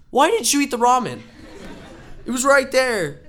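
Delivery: high, loud, fast laughing rant; exasperated mock scolding. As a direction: lecture him half laughing. Scolding friend who refused ramen.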